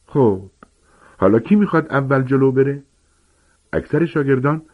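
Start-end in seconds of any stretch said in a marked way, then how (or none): 0.1-2.8 higher, hearty gamekeeper voice; booming, eager teacher giant; Hagrid explaining. Acted. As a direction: lecture the class like a big friendly giant. Hagrid asks for volunteer.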